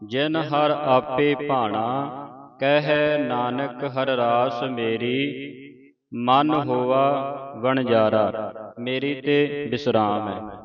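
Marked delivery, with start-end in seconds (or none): 0.1-8.5 slow, measured Gurbani reading; drawn-out teaching recitation; scripture recitation. Shown as a demonstration. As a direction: recite the verse slowly, vowels held long.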